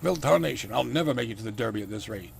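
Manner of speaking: put-on hammy southern accent, loud on the opening; southern gentleman's accent, bursting out then settling. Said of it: "he's got a southern accent".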